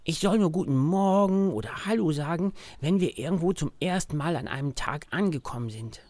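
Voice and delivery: a child voicing his teddy bear; disguised voice. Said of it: "sagt Max mit verstellter Stimme". (verstellte Teddystimme)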